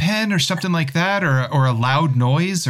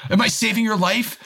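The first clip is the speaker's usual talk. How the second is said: shouting; 5 semitones higher than usual. Pretend. Shouting to save her.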